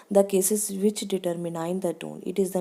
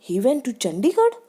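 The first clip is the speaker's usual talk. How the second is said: surprised tone; 4 semitones higher, 4 dB louder than usual. Shown as a demonstration. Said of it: "surprise में भी उसकी आवाज़ high हो जाएगी".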